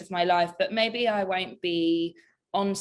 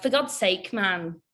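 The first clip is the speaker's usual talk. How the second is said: Welsh accent, GODS lifted a little; attempted Welsh accent. Shown as a demonstration. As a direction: have another try at sounding Welsh. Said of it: "Can I do a good Welsh accent?".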